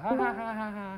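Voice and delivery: nervous laughter. Real, not acted. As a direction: laugh out of nerves. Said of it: "I am just incredibly nervous".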